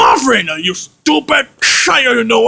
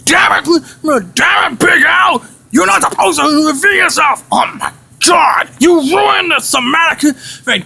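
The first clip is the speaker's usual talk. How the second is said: higher-pitched angry outburst; acted furious reprimand; exasperated scolding; 4 semitones higher than usual. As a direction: tell off a bungling partner. Scolds Big Al for revealing himself.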